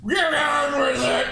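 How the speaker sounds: slow, gruff, angry mock order; impatient growl at the hero; imitating the jawless knight, annoyed and slow; angry grumble. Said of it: "He's so angry".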